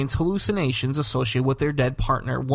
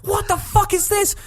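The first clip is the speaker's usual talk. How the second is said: high-pitched panicked mock scream; hammed-up shriek of horror; acted panic; 4 dB louder than usual. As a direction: scream it as if reliving the nightmare. Acted panic in retold nightmare.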